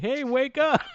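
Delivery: loud, high mock shout; imitated crowd yell. Fan acts out the crowd rousing the wrestler, loud mock yell. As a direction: holler it like a heckling crowd. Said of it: "the crowd did do that".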